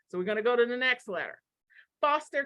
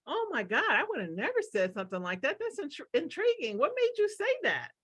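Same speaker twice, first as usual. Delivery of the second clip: bright, much higher, fascinated voice; curious and intrigued; 5 semitones higher than usual. Retold or imitated. Coach modelling the curious reaction, intrigued and high. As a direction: sound genuinely delighted by someone's odd remark. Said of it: "So instead of going".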